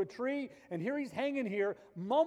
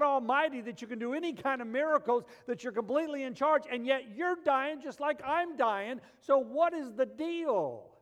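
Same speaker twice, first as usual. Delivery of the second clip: higher voice, sneering, slowed on the jabs; mocking criminal; 6 semitones higher, 3 dB louder than usual. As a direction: taunt a dying man with scorn. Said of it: "he looks over at him and he says".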